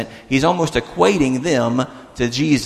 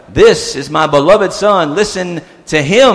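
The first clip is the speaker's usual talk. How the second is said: slow, firm proclamation; booming voice; 3 semitones higher, 4 dB louder than usual. Retold or imitated. God interrupting Peter from the cloud, booming. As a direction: declare it with mild thunder. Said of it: "maybe it's a booming voice".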